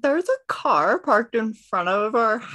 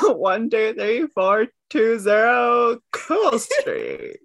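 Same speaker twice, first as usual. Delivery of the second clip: slow shouted address. Acted. Player shouts address slowly.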